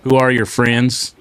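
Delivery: slow, stretched-out country twang; mock your own twang, drawing the words out. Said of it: "Do you put a lot of twang".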